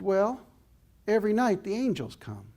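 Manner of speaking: put-on high little-girl Texas voice; little Texas accent. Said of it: "in her little Texas accent".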